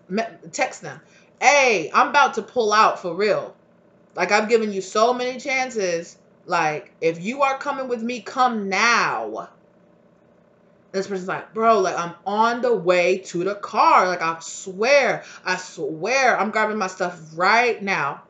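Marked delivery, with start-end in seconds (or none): 1.4-9.5 slow, deliberate final warning; lightly voiced fed-up friend spelling it out; impatient driver. Reads the driver's impatient text. 11.5-18.2 slow, drawn-out fake promise; stalling excuse. Lazy partygoer lying by text.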